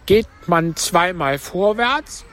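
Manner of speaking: high, plaintive turtle voice; Mock Turtle. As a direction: pitch it up for the tearful turtle. (hohe Stimme der falschen Schildkröte)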